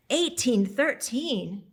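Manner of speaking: stunned gasp of a date, spoken slowly; shocked realisation. Acted. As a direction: let the date land in disbelief, drawn out.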